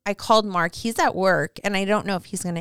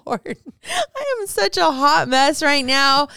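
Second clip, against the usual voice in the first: laughing exasperation; 5 semitones higher, slower than usual. Retold or imitated. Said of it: "I'm like".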